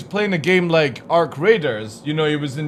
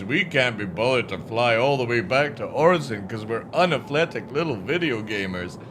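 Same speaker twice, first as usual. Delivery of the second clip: mock the lazy players; lightly mocking gamer voice; 5 dB louder than usual.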